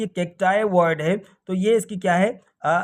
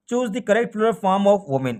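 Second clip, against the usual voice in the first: very slow, careful English reading; teacher reading the next question very slowly; much slower than usual. Shown as a demonstration. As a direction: read it out slowly so everyone follows.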